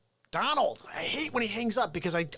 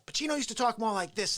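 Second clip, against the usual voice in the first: early-career, higher-register impression; lightly put-on younger Pacino; 2 semitones higher, faster than usual. Shown as a demonstration. Comic showing early high-end Pacino, light impression. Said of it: "used to be high-end Pacino".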